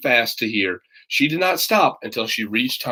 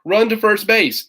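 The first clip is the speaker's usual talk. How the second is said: yelling; 7 semitones higher than usual. A narrator's reading. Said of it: "yelled the boys".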